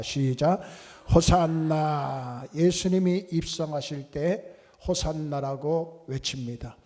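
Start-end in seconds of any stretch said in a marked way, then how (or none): 1.1-2.5 long, drawn-out call, only mildly raised; demonstrated hosanna cry. Shown as a demonstration. Preacher leading congregation in Hosanna, drawn-out cry. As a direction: lead the cry slowly, stretching each syllable. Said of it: "우리 한번 해볼까요?".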